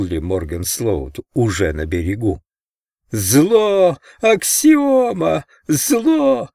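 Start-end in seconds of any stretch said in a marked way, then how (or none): 3.1-6.5 very high, drawn-out crazed yell. A narrator's reading. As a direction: howl the words like a raving madman, slowing on the middle word. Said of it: "вопил Гарнер".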